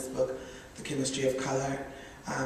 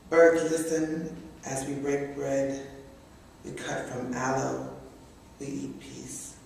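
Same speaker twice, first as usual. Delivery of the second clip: measured recital, a pause after each short line; poem reading; slower than usual. Acted. Begins reading second poem.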